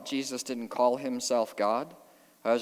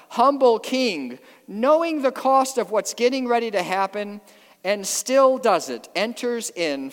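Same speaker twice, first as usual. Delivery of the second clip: raised, higher preaching voice; impassioned preaching; 7 semitones higher, 6 dB louder than usual. Real, not acted. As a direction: preach it out with force. Preacher at full force.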